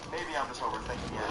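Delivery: whispered to himself, nervous; whispered self-reassurance; retold whisper. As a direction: hush it like a scared thought in the dark. Retelling nervous self-talk at night.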